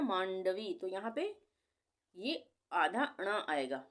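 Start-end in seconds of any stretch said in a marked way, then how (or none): 0.0-0.7 मांडवी with a nasal half ण before the ड; मांडवी, nasal "maan-davi"; nasal sound. Shown as a demonstration. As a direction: let the n in मांडवी sound through the nose. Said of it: "नाक से थोड़ी आवाज़ आ रही है ना".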